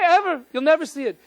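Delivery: usual speaking voice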